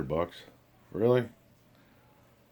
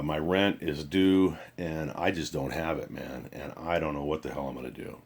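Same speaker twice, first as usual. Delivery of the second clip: imitating a down voice; 3 semitones lower, 4 dB quieter than usual. Friend calling to ask for rent money, voice down and low. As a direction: mimic a broke friend sounding defeated. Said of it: "his voice is real down".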